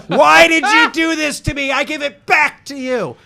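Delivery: high, loud laughing outcry; laughing protest. Real, not acted. Protesting to his friends, laughing loudly. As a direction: laugh it out, mock-betrayed.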